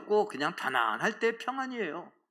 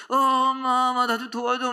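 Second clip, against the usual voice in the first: a son's panicked plea, pitched up and louder; pleading son's voice; 6 semitones higher, 5 dB louder than usual. Retold or imitated. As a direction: beg mom for help like the caller's fake son. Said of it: "막 이렇게 하는데 내 아들 목소리래". (높고 다급하게 애원하는 아들 목소리)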